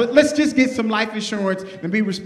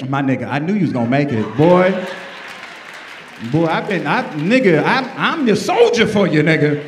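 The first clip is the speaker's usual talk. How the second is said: overjoyed hammed-up dad sucking up; excited dad; 4 semitones lower than usual. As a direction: hype up your son like he's rich. Overexcited dad after son signed.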